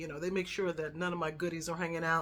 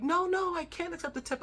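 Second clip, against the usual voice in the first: much higher, insistent protesting no no; mock flustered driver waving the tip away; flustered refusal; 11 semitones higher, 3 dB louder than usual. Tour bus driver refusing my tip, high flustered protest.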